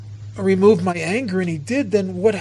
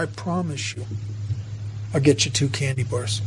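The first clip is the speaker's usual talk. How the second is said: lower, softened reassuring promise; gentle coaxing; 5 semitones lower, 5 dB quieter than usual. Acted. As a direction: make a quiet, low promise to a small child. Paramedic coaxing a stuck child.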